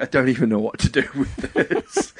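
laughing as you quote him; retold laughing disbelief. Friend faced with a massive pancake, retold through laughter. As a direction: imitate someone laughing helplessly at the sight. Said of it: "started laughing".

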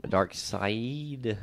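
"Darkseid" drawn out very slowly, ending like side; tentative pronunciation. Shown as a demonstration. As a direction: stretch out "Darkseid" as if testing how it sounds. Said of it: "right way to pronounce it is".

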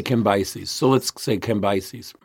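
Cambyses said kam-BYE-sees; Cambyses agreed. Shown as a demonstration. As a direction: Cambyses with long eye. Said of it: "I would say".

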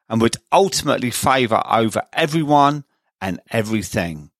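steady scripted host read over music; smooth radio-style intro and sponsor plug; podcast intro read. Acted.

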